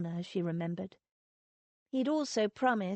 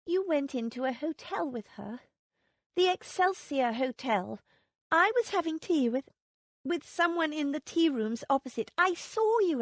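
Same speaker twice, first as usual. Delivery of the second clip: higher, rising wife's voice, building in heat; Lily accusing; 6 semitones higher, 3 dB louder than usual. A narrator's reading. Wife confronts her husband about another woman, higher and heated. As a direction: let the accusation climb higher and louder.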